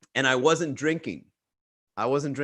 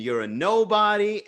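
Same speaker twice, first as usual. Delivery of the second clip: higher-pitched mock insult; lightly acted contempt; imitating her anger; 6 semitones higher than usual. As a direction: throw out her retold put-down. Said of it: "of, like, anger".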